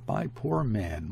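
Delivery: slow, understated lament; mild moaning. Acted. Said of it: "heard her moaning".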